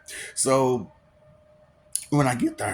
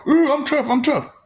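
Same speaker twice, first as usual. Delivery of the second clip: mock tough guy; 8 semitones higher than usual. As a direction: ham up a cocky tough act. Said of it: "You doing".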